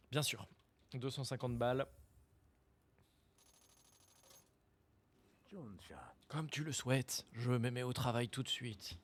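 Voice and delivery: voix de vieux forgeron légèrement grave. Acted. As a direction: joue un vieux scarabée bourru. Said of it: "C'était pas ma voix de vieux normale". (voix de très vieil homme)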